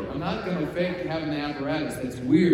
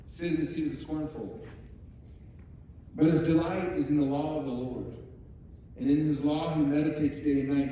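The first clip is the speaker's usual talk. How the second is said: measured recitation of a psalm; scripture recitation. Acted. Preacher reciting a psalm to the congregation, measured recitation. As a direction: recite scripture in deliberate, separated phrases.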